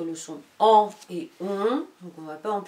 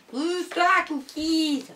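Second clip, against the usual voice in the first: much higher, sharp push-away; shooing the dog; 8 semitones higher, 3 dB louder, slower than usual. Real, not acted. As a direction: shoo the dog off.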